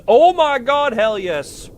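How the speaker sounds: high, loud burst of delight; thrilled shout of joy; excited cheer. Real, not acted. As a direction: whoop it out in triumph. Chat member succeeds at stunt.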